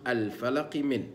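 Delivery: الفلق begun with a clear glottal stop, slow; الفلق started as if with hamza; starting hamza. Shown as a demonstration. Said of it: "تقول". (البدء بهمزة الوصل)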